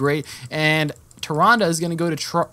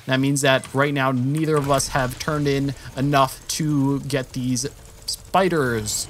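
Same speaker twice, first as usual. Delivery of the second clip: ordinary delivery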